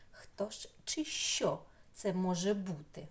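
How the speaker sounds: whispered, conspiratorial question; mysterious whisper. Acted. Teacher whispering the riddle question to the class. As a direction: hush it as if sharing a secret.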